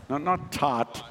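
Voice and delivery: American open "ah" in "taught"; imitated American accent. Preacher echoes the congregation's wrong take, imitated American accent. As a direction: mimic "taught" the American way, as "taht". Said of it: "Say it in a proper South African accent".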